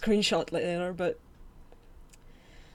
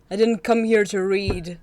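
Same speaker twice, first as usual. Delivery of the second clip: exasperated, loud; 5 dB louder than usual. Real, not acted. Complaining about game text.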